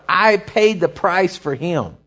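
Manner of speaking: slow, drawn-out plea; crying out. Acted. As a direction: cry it out slowly, each word stretched. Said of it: "is crying out for you".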